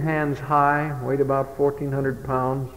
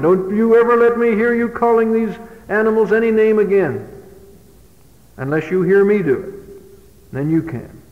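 higher, firm fatherly warning; stern father; 5 semitones higher than usual. Retold or imitated. Father forbidding his son to name-call animals, stern. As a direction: lay down the law to your son.

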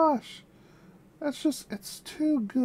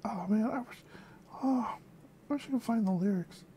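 whisper; 3 semitones lower, 6 dB quieter than usual. Real, not acted. Wishing for the lyrics.

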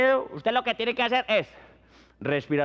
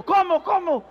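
alarmed surprise; 9 semitones higher, 4 dB louder than usual. Acted. Bystander's alarmed reaction.

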